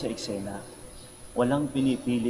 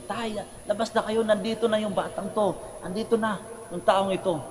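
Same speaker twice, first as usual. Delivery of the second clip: high, urgent mock yell, volume held back; imitated shouting; 9 semitones higher than usual. Child calls father out about the caught youth, imitated high shout. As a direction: act out calling someone outside, pitched high. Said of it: "sumisigaw siya".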